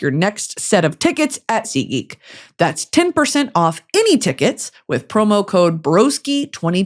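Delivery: brisk, polished sponsor read; scripted host-read commercial; podcast ad read. Real, not acted. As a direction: read the copy with upbeat, practiced emphasis. Reads sponsor ads.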